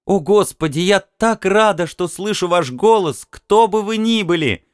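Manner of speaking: high, relieved female voice, near tears; overjoyed and tearful; tearful woman. A narrator's reading. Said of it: "Она плакала в трубку".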